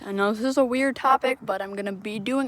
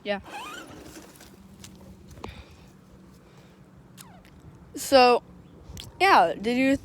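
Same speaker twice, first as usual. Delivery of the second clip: talking around a phone in mouth; phone held in teeth. Real, not acted. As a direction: speak with a phone between the teeth. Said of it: "put the pop socket on my phone in my mouth".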